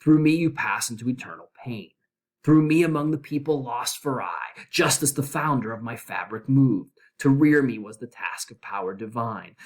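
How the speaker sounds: solemn, measured reading of verse; dramatic poem reading. Acted. Teacher reading the Inferno aloud to class, solemn and measured. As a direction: intone it like words carved over a gate. Reads Dante's hell gate inscription.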